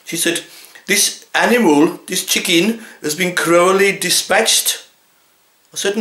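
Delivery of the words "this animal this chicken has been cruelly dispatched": slow, lofty, mock-posh voice; prim complainer. Outraged wife lecturing the butcher, slow and lofty. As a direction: draw it out like a self-righteous campaigner.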